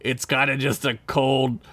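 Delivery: lightly voiced Gorn, deliberate delivery. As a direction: read it as a pompous alien reptile. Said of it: "you do a Gorn voice this time".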